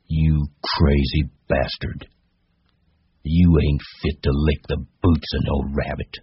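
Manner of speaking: deliberate, contemptuous rabbit; scornful. Acted. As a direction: sneer at him, unhurried. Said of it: "it said scornfully".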